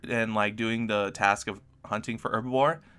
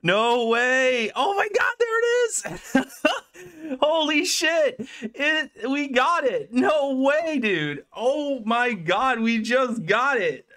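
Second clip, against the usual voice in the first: real freaking out; 12 semitones higher than usual. Real, not acted. Streamer just got the rare pet, ecstatic shrieking. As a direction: shriek with joy at a dream drop, slowed and stretched. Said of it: "I'm freaking out".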